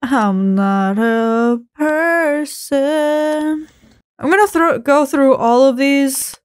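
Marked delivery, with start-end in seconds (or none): 0.0-3.7 eerie. Acted. Eerie game message read aloud.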